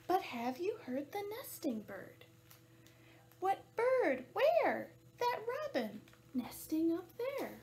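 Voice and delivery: measured, lilting picture-book narration; animated storytime voice; reading to children. A narrator's reading. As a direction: read it out clearly for little listeners.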